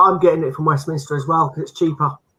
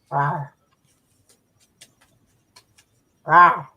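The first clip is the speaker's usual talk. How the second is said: dinosaur impression; 5 semitones lower than usual. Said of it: "That's my dinosaur impression".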